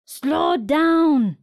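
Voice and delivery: shout. A narrator's reading. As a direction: warn her firmly. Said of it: "shouts the elders".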